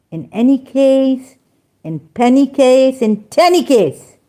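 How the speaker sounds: scornful singsong repetition; mocking wordplay. Real, not acted. Mockingly rhyming a quoted phrase.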